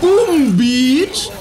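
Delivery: loud, high victory taunt; exultant gamer yell; triumphant shout. Real, not acted. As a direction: crow it as the hit lands. Lands a hit in duel.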